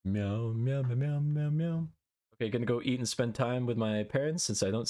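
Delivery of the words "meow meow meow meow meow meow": cat meow. Shown as a demonstration. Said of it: "cat meows again".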